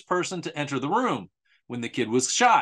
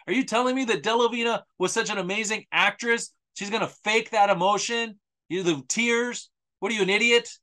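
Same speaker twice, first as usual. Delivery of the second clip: sarcastic disbelief; 5 semitones higher than usual. Real, not acted. Sarcastic rant.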